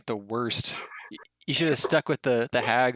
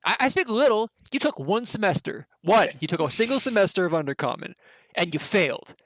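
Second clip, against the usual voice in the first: goblin bickering; 4 semitones higher than usual. Acted. GM voices squabbling goblins.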